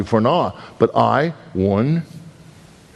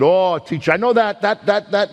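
eager schoolboy; 8 semitones higher than usual. Retold or imitated. Eager child answering teacher.

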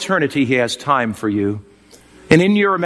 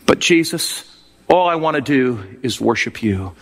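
tender prayer. Acted. Kneeling prayer to Jesus, imagined.

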